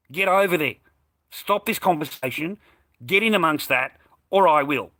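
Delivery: heated ultimatum; angry retold scolding. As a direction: reenact ordering a stepdad to intervene. Acted angry scolding of the stepdad.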